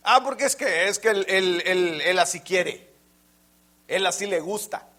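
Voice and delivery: hammed-up self-justifying man; excusing man. Voicing an excuse-maker.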